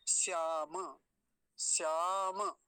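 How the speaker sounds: श्याम with s and a full म, sjamə; careful demo. Shown as a demonstration. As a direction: say श्याम with a dental स. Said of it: "तालव्य शकार होता है". (श्याम, दंत्य स)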